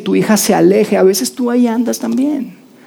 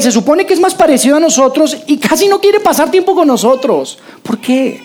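mock outraged religious men, rising higher; indignant Pharisees; 4 semitones higher than usual. Preacher voicing Pharisees scandalized that Jesus eats with sinners. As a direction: play the scandalized Pharisees, pitch climbing.

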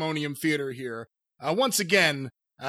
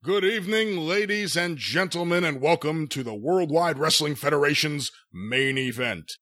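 a light hint of a nasal sports announcer; Howard Cosell impression; 3 semitones lower than usual. Host opening the wrestling broadcast, lightly voiced announcer. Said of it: "doing his best Howard Cosell impersonation".

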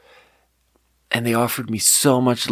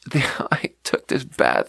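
whisper; 2 semitones higher than usual. Real, not acted. Confiding about the bath.

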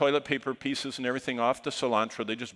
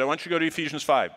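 eager instruction; 6 semitones higher, 5 dB louder, much faster than usual. Retold or imitated. Eager preacher instructing, retold.

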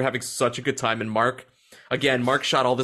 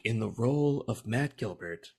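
mock credits announcer; 4 semitones lower than usual. Host announces his own deepfake movie casting, mock announcer. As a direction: drop it low and measured, deadpan billing.

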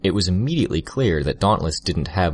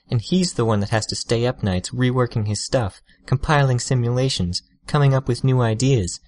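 higher and raised over the noise; 6 semitones higher than usual. A narrator's reading. Tattletale raising her voice over the crackling force field. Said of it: "raising her voice to be heard".

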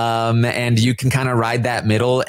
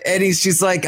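usual speaking voice

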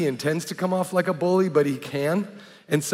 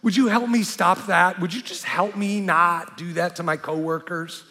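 softened friend; 3 semitones higher than usual. Retold or imitated. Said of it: "he's like".

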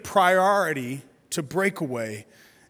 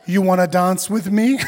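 playful daughter, rising to a laugh; little girl voice; 2 semitones higher, 5 dB louder than usual. Retold or imitated. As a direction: voice your four-year-old asking to dance. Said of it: "She goes".

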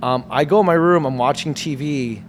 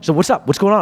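put-on worried girlfriend; 3 semitones higher, 3 dB louder than usual. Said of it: "She's like".

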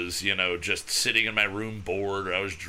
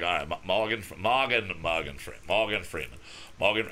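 Morgan Freeman warm-up; 5 semitones lower, 3 dB quieter than usual. Retold or imitated. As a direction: ease into the voice by repeating his name. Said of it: "So I come in and be like".

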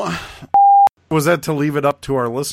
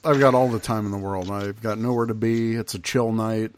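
sarcastic calm; 4 semitones lower, 6 dB quieter than usual. Acted. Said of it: "makes me think it's the exact opposite".

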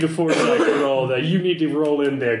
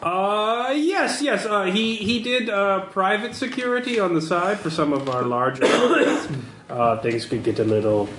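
hesitant, higher-pitched genteel fixer; lightly voiced genteel contact; 6 semitones higher than usual. Game master voices an underworld contact.

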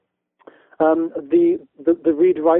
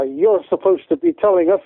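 lightly put-on Scottish accent as a rough engineer; bad Scottish accent; 3 semitones higher than usual. Retelling an angry student's complaint in a mild mock Scottish accent. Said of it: "that's a really bad Scottish accent".

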